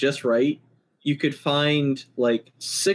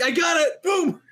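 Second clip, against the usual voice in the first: much higher, a triumphant shout; excited shout; 13 semitones higher than usual. Real, not acted. Celebrating the recorder prank idea to co-hosts, excited shout. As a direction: crow the win to the room.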